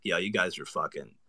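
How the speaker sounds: cocky, swaggering bro voice; a brash Jake Paul impression. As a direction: talk like your tongue got stung by bees. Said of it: "shifted to Jake Paul".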